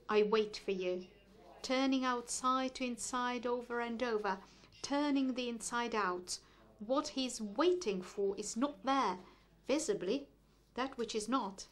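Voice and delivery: emphatic, driven poetry recital; tense, forward-moving verse reading; poem reading. Acted. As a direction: recite in firm, separate phrases with weighted key words. Reads a poem aloud.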